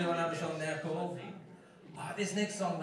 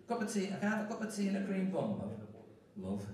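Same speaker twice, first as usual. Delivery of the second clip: quick, lightly put-on Liverpool accent; a touch of Liverpudlian, said briskly; 10 dB quieter, faster than usual. Shown as a demonstration. Singer shows off the accent to the audience, Liverpool accent. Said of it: "You like that accent?".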